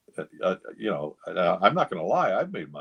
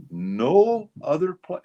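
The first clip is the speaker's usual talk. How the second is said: much higher, louder and slow; emphatic verdict; 10 semitones higher, 6 dB louder, much slower than usual. Retold or imitated. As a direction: hammer it home as the last word. Durocher's emphatic final word.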